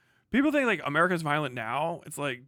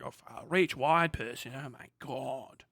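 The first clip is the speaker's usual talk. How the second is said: mock dismay; 2 semitones lower than usual. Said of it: "You're like".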